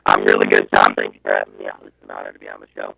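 garbled robot voice on a bad line; glitchy, jumping robotic pitch. Real, not acted. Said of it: "you sound like a robot".

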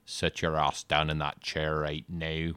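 put-on slow, stern Irish accent. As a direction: lay down the law in a mock Irish accent. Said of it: "I'll do an Irish".

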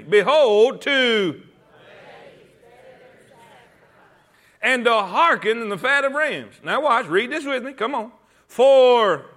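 loud unison reading; reading along together. Real, not acted. Preacher leading the congregation in unison reading. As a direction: lead the church in reading aloud. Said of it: "Read it with me".

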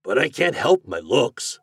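earnest storybook plea; pleading. A narrator's reading. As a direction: plead as a rejected suitor, pitch lifted. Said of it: "pleaded the glassblower".

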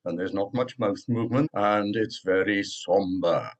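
somber North Wales accent, lips barely moving. Shown as a demonstration. Professor showing the North Wales accent from Bangor. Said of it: "it goes a little bit like this".

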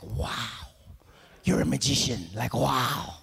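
a baby wowed by its mum, lightly played; hint of a dazzled infant; amazed baby.

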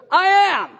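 booming, high-pitched shout; scary, full-force proclamation; Jesus. Acted. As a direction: thunder it out as a fearsome declaration. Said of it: "scary moment where Jesus goes".

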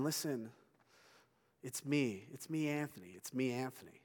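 soft, soothing calm to a dog. Retold or imitated. To his father's barking dog, a soft calming voice. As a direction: settle the barking dog down gently.

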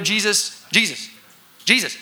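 rising panicked shouts to wake a sleeper; calling to wake. Retold or imitated. Disciples trying to wake Jesus.

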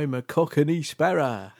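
put-on caricature of a Cockney accent; mock Cockney accent. Joining friends slacking off the Americans, in a mock Cockney accent. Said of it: "imitate English accents when they're over here".

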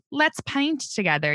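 high, sing-out cheery suggestion; brightly pitched mock enthusiasm; mock cheerful. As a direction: imitate a mother suddenly all sweetness. Mother's sudden sweet mood swing.

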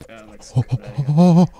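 bad Irish accent on a name; mock Irish accent. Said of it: "in an Irish accent".

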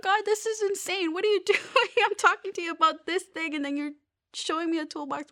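high, disbelieving cry to God with a laugh; half laughing, can't believe what she's being shown; incredulous exclamation. Retold or imitated. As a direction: pitch jumps up in amused disbelief at a toolbox. Retold exasperated prayer.

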